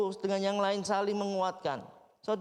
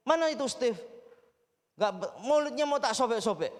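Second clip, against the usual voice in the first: angry caller; 3 semitones higher than usual. Retold or imitated. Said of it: "dia dengan marah".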